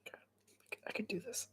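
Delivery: soft whisper to himself; hushed pep talk; whispered self-talk. Real, not acted. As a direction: psych yourself up under your breath.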